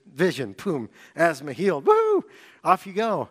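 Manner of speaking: high, loud whoop of instant healing; breezy instant-miracle patter, building to a high woo; mock celebration. Preacher imagining God healing him in a snap, mock celebration.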